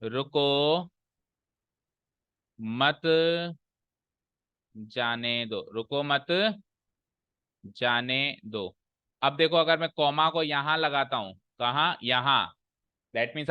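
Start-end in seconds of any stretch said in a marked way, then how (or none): 0.1-5.7 रुको drawn out, long pauses before मत and जाने दो; dictated while writing. Shown as a demonstration. Teacher writing out the sentence, word by word with pauses. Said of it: "लिख के बताता हूं". 5.7-8.8 रुको मत together, long pause, slow जाने दो; dictated while writing. Shown as a demonstration. Teacher writing out the second sentence, slow with pauses. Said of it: "लिख के बताता हूं".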